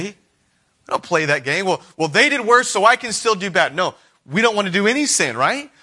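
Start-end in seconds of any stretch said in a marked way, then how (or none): 1.6-3.7 high, louder petulant excuse; sulky excuse-making; mock self-justifying whine. Voicing a self-justifying sinner.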